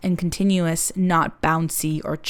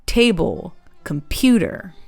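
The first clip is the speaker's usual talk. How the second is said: TA-ble, com-PU-ter; English word stress on "table, computer"; varied English stress. Shown as a demonstration. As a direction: hit the first syllable of "table", the middle of "computer". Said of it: "English varies stress more unpredictably".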